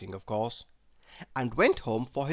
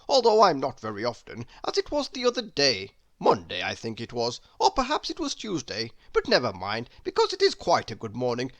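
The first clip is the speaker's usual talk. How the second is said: loud, endless babbling ramble; rambling chatterbox; 3 dB louder than usual. Acted. Mister Chatterbox rambling at the postman, loud and breathless. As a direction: ramble on without drawing breath.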